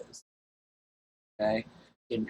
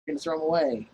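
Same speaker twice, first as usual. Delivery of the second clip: louder and higher, imitating a firm aunt; aunt refusing to let him keep the pants, loud and higher; bossy aunt; 5 semitones higher, 4 dB louder than usual. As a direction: lay down the law like an aunt who won't budge. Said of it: "And she's like".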